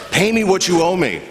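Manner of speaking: put-on a kids' story grab-by-the-throat demand; harsh demand. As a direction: demand the money like a bully. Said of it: "grabbed that man by the throat".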